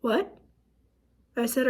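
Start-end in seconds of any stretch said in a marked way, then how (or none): 0.0-0.4 stunned disbelief. Retold or imitated. Wife told by phone of husband's death, stunned disbelief. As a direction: re-enact not believing what was heard.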